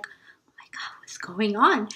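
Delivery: unvoiced, scared whisper; frightened whisper. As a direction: whisper the panic to yourself. Her frightened inner thought.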